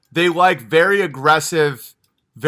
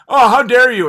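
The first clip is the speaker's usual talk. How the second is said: mock outrage; 6 semitones higher, 6 dB louder than usual. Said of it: "it's like".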